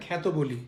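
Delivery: খ্যাত said as khat, open e; খ্যাত with the open "kha" sound, not khet; said khyat. Shown as a demonstration. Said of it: "এটা তো আমরা খেত বলি না". (খ্যাত উচ্চারণ, খ্যাঁত-এর মতো)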